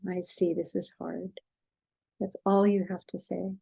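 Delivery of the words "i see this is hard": quiet, gentle acknowledgement; name the child's struggle softly; soft empathy. Shown as a demonstration. Parent acknowledging a child's hard feelings, quiet and gentle. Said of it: "and you go".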